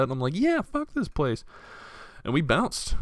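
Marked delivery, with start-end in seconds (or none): 0.4-1.4 high, slow, breezy kiss-off; mock carefree. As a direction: toss it off, airy and dismissive. Quitting, mock carefree reply.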